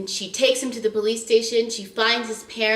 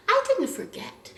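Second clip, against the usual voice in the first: laughing repeat; 12 semitones higher, 3 dB quieter than usual. Real, not acted. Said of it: "repeated with laugh".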